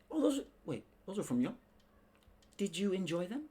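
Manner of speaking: high, startled mock reply; surprised victim. Podcaster acting the victim, high surprised voice. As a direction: play the naive receiver.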